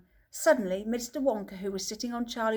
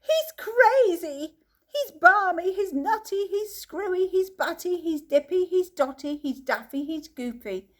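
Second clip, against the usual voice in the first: frightened shouting; 8 semitones higher, 4 dB louder than usual. A narrator's reading. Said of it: "chorus of frightened shouting".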